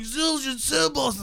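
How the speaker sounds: amazed disbelief. Retold or imitated. Guy amazed at drum gear.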